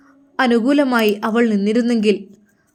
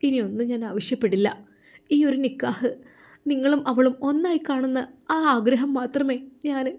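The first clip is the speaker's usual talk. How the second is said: tearful plea; 3 semitones higher, 5 dB quieter than usual. Acted. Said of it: "Farsana ബീവി കരയുകയാണ്".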